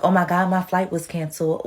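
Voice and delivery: lightly mocking entitled whine; a hint of a whiny passenger; mock complaint. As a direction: imitate a spoiled traveler, barely changed. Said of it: "people that are like".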